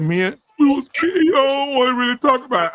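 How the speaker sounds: lightly acted whimpering reluctance; imitated tearful reluctance. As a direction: act out a friend too upset to explain. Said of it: "That nigga will cry his whole".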